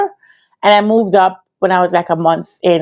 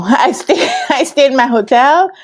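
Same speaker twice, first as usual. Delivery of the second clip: laughing; 5 semitones higher than usual. Real, not acted. Laughing at her own story.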